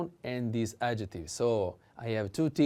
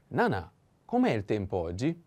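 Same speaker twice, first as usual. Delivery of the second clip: Nana, com'è il tempo oggi said quickly and flowing; fast plain run; faster than usual. Shown as a demonstration. Teacher repeats the question at natural speed. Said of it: "pay attention to the accent".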